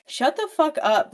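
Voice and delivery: sharp, loud, high snap; retold angry outburst; angry retort. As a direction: tell her off hard. Evie snaps at the mother.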